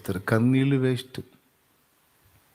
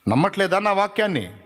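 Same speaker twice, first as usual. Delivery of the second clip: higher, insistent questioning; reproachful challenge; 6 semitones higher than usual. Acted. Preacher voices God rebuking a doubting mourner, reproachful.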